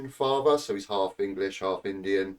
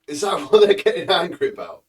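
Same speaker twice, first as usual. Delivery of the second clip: incredulous; 6 semitones higher, 9 dB louder than usual. Real, not acted. Incredulous at the trivial complaint.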